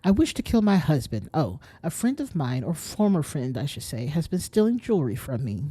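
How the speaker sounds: lightly voiced Valley Girl customer; a hint of Valley Girl uptalk. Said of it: "I gave her a Mount Valley Girl voice".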